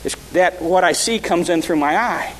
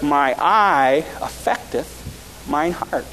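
solemn scripture reading; much slower than usual. Shown as a demonstration. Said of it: "this is my text verse for tonight".

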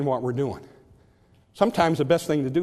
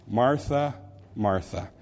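tender double address; 2 semitones lower, slower than usual. Shown as a demonstration. Jesus gently correcting Martha, tender fall. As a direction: call her name gently twice, letting it fall. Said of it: "conveys, uh, just a sense of tenderness".

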